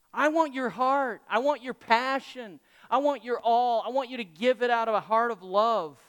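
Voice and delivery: fervent appeal. Retold or imitated. Preacher voices God wanting their whole heart, fervently pleading. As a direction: press each "I want" home with feeling.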